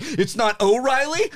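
put-on high, slow, puzzled Irish-accent teacher voice; drawn-out, questioning mock teacher; teacher's quote. Imitating his teacher on the first day, a high, slow, puzzled voice. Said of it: "She's like".

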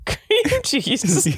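"cream cheese" with the weight on CREAM; imitating spouse's stress. Mimicking a spouse's odd emphasis, stress on CREAM. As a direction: stress "cream", let "cheese" fall away. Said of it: "you're saying".

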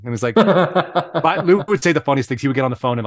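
ordinary talk, nothing marked

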